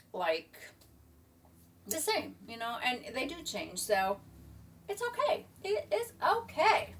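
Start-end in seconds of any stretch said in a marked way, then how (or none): 4.9-6.9 high, slow self-comfort; reassuring. Real, not acted. Woman reassuring herself about getting older, gently. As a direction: soothe yourself gently.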